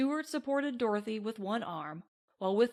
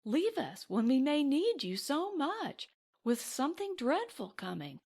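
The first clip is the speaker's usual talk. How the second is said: frightened plea; 4 semitones higher than usual. Acted. Dorothy pleading in fear.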